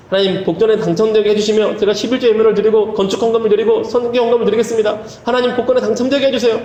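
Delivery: earnest run-on bargaining with God; mock fervent prayer. Man promising offerings for a lottery win, mock fervent prayer. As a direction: rattle off the vows without a break. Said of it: "막 간절히 기도했대요".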